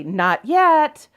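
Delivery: firm refusal. Retold or imitated. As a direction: shut him down: "yet" hits hard and drops.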